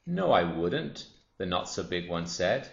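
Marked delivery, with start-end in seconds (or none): 0.1-1.1 high, loud, drawn-out protest; slow, offended refusal; indignant denial. Acted. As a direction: protest slowly in a higher, louder storybook voice. Smaller croc denies the taunt.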